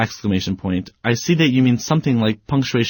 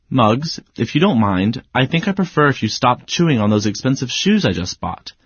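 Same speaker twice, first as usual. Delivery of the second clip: calm. Shown as a demonstration. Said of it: "I'd be very calm".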